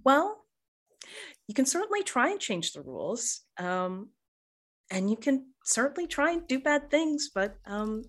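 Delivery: sweetly condescending. Acted. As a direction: patronize them sweetly. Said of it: "smiles sweetly and says".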